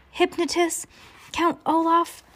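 high-pitched, incredulous outburst; angry yell. A narrator's reading. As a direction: throw each word back in outrage. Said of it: "he yelled".

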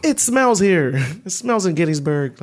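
high-pitched mock child complaint; imitated complaining kid. Host plays kid sent to Gettysburg, mock complaining. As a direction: whine it like a kid, half laughing. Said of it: "send a kid back there".

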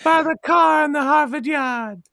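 hammed-up Boston r-dropping; Boston accent. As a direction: play up the Boston kid accent. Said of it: "What we say in Boston".

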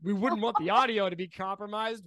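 high, teasing mock worry; mock concern. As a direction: pretend to fret over the audio. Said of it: "I'm chewing".

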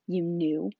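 loud, rising disbelief; stunned question. Acted. Boy confronts his relatives, mild stunned question. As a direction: ask it as the truth dawns. Harry learns they knew.

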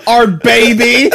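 slow, fake crying voice; mock tearful. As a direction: pretend to weep over it. Mock sentimental joke.

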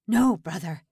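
loud pleading shout. A narrator's reading. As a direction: cry out to stop him. Old man stops the attack.

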